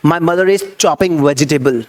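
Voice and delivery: slow, deliberate model sentence; careful classroom demo of the right wording; correct version, slow. Shown as a demonstration. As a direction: say the right example slowly and clearly. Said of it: "आपको चॉप बोलना है".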